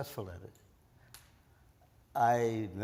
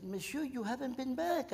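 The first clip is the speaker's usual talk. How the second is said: a hint of a higher woman's voice; lightly voiced Belgian woman; 11 semitones higher than usual. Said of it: "She said".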